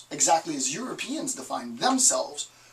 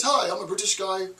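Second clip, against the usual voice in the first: higher-pitched, hammed-up British accent; bad British accent; 5 semitones higher than usual. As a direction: put on a lousy British accent. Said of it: "my British accent is horrible".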